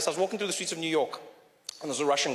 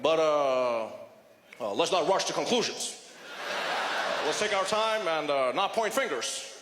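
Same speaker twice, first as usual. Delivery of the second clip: timid mock Obama; 3 semitones lower than usual. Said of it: "Obama was like".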